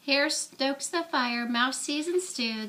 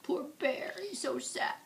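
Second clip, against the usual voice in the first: whisper; 4 semitones higher, 7 dB quieter than usual. Real, not acted. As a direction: whisper sympathy about the bear.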